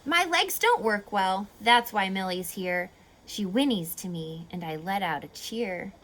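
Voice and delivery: lively storybook read-aloud; reading to children. Acted. Teacher reading a rhyming story to kids, lively. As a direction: read the rhymes to a class, bouncy and clear.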